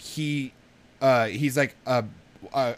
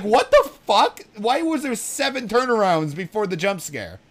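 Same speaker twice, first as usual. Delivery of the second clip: laughing disbelief; 7 semitones higher than usual. Retold or imitated. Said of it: "And I'm like".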